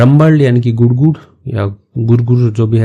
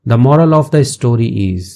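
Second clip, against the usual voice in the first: slow teacher read; much slower than usual. Shown as a demonstration. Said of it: "teacher reads slowly".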